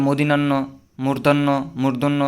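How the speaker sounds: মূর্ধন্য said as মুর্দান্য, the common slip; মদিনান্য mispronounced on purpose; wrong reading. Shown as a demonstration. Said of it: "এরকম পড়ে, এগুলো হচ্ছে কি? ভুল".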